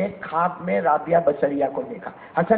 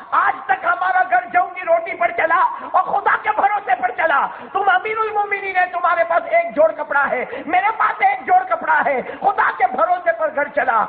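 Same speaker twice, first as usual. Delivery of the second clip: tearful cry; 9 semitones higher than usual. Retold or imitated. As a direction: cry it out high to your husband. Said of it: "رو کر کہا".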